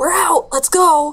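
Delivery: high, slow half yell, half whisper. Retelling someone calling out to retreat: imitating a yell-whisper. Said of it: "we hear someone yell, kinda, like, yell, whisper".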